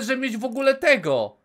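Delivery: ordinary talk, nothing marked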